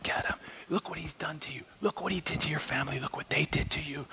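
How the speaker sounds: hissed whisper urging to kill; Satan whispering. Pretend. Satan in the room egging him on, whispering. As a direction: whisper temptation into an ear. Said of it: "Satan's in the room going".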